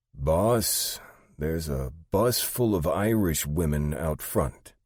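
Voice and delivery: puzzled, high-pitched delivery; Sandy, bewildered assistant. Acted. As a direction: report odd news to the boss. Narrator voices Sandy.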